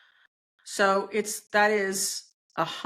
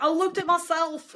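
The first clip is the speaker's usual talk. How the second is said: a quick put-on English accent, pitched higher and louder; mock English accent; 6 semitones higher, 3 dB louder than usual. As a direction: toss off a jokey English accent that drifts toward Scottish. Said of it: "You have to do this in an Eng-, English accent".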